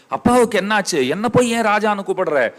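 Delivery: high-pitched, appalled questions about father; distraught outcry. Acted. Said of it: "கதறான் பாருங்க அவன் உடனே". (உயர்ந்த குரலில் பதறிக் கேட்பது)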